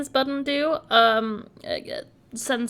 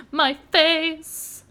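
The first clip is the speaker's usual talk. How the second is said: shocked cry; 5 semitones higher, 5 dB louder than usual. Real, not acted. Reacts to a rotting face.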